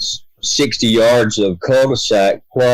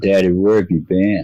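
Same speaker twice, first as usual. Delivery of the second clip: tearful, pleading, crying voice; 2 semitones lower than usual. Retelling finding his crying son in the woods: imitating his son crying. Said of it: "he's crying".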